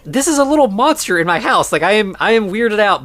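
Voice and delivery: lightly acted alarm; mock weirded-out protest. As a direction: play someone rattled but holding it together. Retold John uneasy about the monster.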